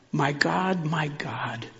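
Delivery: Jesus' plea, whispered to God; hushed whisper. A narrator's reading. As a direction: breathe the plea out barely voiced. Quiet rendering after loud cry.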